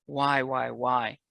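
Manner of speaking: loud pleading why to the Lord; begging cry. Retold or imitated. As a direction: beg the Lord for an answer, loud. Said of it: "I would beg and I would cry".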